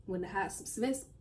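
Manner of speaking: tongue burning from spicy noodles; halting, mouth on fire. Real, not acted. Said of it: "I can't talk".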